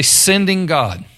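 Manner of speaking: slow, high call for the crowd to echo; call-and-response prompt. Shown as a demonstration. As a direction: lead the congregation: Sending God, slowly. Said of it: "everybody say".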